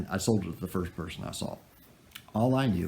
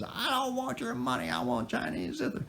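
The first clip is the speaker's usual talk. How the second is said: high falsetto imitation of an upset woman; mock indignant woman; 4 dB quieter than usual. Upset buyer throws money back at seller, mock-hysterical falsetto. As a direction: refuse in a squeaky put-on woman's voice. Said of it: "throws it back at me and says".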